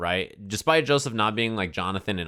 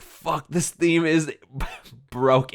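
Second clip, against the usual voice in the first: slow, higher, laughing through the words; laughing disbelief; 6 semitones higher, slower than usual. Retold or imitated. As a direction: marvel at it while cracking up. Raving about the anime theme.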